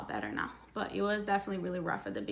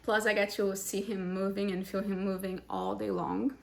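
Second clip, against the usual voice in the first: out of breath. Real, not acted. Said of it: "Sorry, I'm out of breath".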